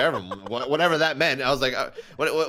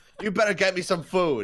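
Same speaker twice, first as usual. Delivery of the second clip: mock angry cursing, higher pitch; 6 semitones higher than usual. Retelling how the other speaker cursed out a waiter: imitating someone cursing out a waiter. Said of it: "you cursing out a waiter".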